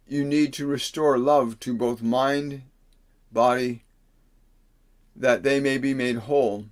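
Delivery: slow, solemn preaching of a received message; channelled message. Acted. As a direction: speak as if passing on words from Spirit, slowly.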